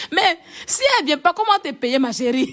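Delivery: teasing question through laughter; laughing tease. Real, not acted. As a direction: laugh while you mock her. Mocking teasing about the boss. (taquinerie en riant)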